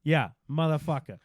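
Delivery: swearing in a shaky attempt at Boston; botched Boston accent. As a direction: try a Boston accent and miss. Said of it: "not actually really a Boston accent".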